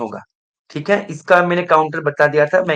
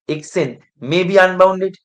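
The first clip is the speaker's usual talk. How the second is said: very slow, every word stretched; drawn-out question; 3 semitones higher, 4 dB louder, much slower than usual. Shown as a demonstration. Teacher testing the class on a claim, stretched out slowly.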